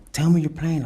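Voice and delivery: high, loud retold disbelief; disbelieving plea. Mom disbelieving on the phone.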